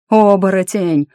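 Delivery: loud, high, drawn-out shout; alarmed yell. A narrator's reading. Attacker raising the alarm about a shapeshifter, long loud yell. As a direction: yell the alarm, stretching the word out. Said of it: "заорал кто-то из нападавших".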